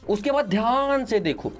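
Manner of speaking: slow motion. Real, not acted. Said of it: "मैं क्यों slow motion में बोल रहा हूँ".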